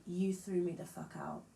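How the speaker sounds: just state it plainly, no drama; matter of fact. Shown as a demonstration. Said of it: "I'm being quite matter of fact".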